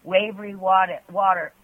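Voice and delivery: lightly performed sensual poem reading. Acted. Reads her second poem.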